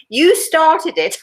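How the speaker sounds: put-on high, slow, childlike voice; imitating the grandson. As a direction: quote the little boy sweetly and slowly. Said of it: "he said to me".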